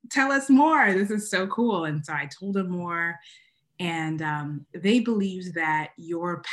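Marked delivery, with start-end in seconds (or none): 0.1-1.8 high, excited mock reaction; imitating eager teachers. Teachers at a workshop discovering her name, mock excited and higher. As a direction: play the thrilled workshop teachers. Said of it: "and they were like".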